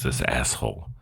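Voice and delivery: ordinary talk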